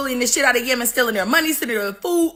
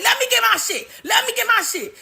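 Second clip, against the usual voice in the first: whiny; 8 semitones higher than usual. Retold or imitated. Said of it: "They like".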